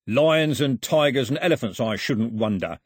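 mildly mocking good cheer; cheerful crook. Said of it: "said Foxlip cheerfully".

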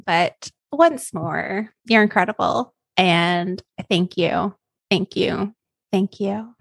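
slow, sincere thanks; heartfelt gratitude. Real, not acted. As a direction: let each thanks land, unhurried.

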